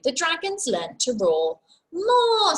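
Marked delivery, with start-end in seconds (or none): 1.9-2.6 high, loud bossy teacher call; loud command. Acted. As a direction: bellow it out to the class. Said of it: "said Madam Dragon".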